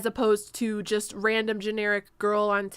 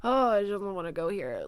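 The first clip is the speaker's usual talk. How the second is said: vocal fry. Shown as a demonstration. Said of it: "a vocal fry".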